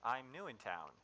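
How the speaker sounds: startled calming. Acted. Mouse calming armed goblins.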